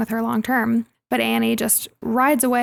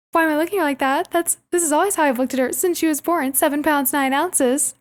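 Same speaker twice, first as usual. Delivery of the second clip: mock indignant Chessie; 4 semitones higher than usual. Imitating Chessie's indignant reply.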